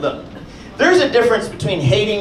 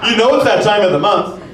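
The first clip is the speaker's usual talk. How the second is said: put-on whiny boyfriend; 3 semitones higher than usual. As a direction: whine like a neglected partner. Comedian voices imagined whining boyfriend.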